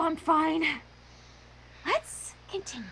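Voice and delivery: soft unvoiced whisper. Real, not acted. Reader hushes the group in a whisper. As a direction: breathe it out under the breath. Quiet aside.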